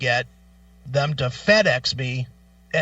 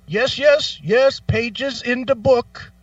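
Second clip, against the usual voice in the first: high, eager repeated yeses; mock eager agent; 8 semitones higher, 4 dB louder, slower than usual. Agent answering caller's book question, high eager mock voice. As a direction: act the rep nodding along too keenly.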